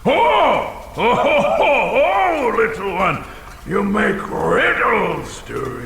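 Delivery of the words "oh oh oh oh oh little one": rising squeals of glee; gleeful high oh's; delighted dragon. Acted. Dragon thrilled that the thief makes riddles, gleeful squeals.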